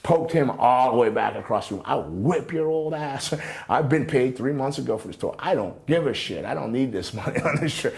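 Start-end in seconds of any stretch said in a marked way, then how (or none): 1.9-7.9 retold threat. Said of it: "And I was hot".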